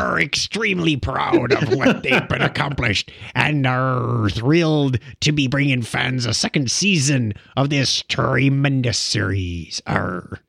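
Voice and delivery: lightly voiced pirate, slow; hint of a pirate, drawn out. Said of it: "Say it like a pirate".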